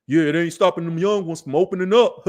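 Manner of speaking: laughing through a put-on boast; mock the guy cracking up at his own joke; imitating a laughing joke. Imitating Shannon Sharpe's joking clip, laughing. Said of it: "clips of Shannon Sharpe joking".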